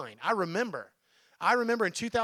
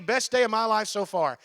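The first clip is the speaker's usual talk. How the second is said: cheery catchphrase; 3 semitones higher, 6 dB louder than usual. Retold or imitated. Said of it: "You know me".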